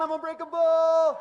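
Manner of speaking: slow, high, very loud "I am unbreakable"; shouted affirmation. Shown as a demonstration. Speaker leads the crowd in yelling the affirmation, loud shout. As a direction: lead the crowd at full volume. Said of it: "Come on".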